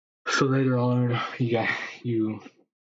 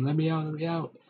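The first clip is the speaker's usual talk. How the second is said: screaming; 7 semitones higher than usual. Acted. Trapped victim screaming from the clown car, high panicked cry. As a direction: yell from inside the box. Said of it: "You're in there screaming".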